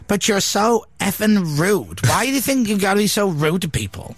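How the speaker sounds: sudden rude turn. Retold or imitated. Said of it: "suddenly turned and went".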